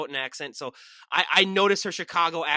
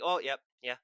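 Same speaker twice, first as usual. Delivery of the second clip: mock Minnesotan accent. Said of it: "Oh, Upper Midwestern".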